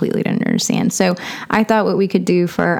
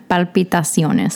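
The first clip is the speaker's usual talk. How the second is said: Palpitaciones with Spanish vowels; Spanish accent. Shown as a demonstration. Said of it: "stick a Spanish accent on that".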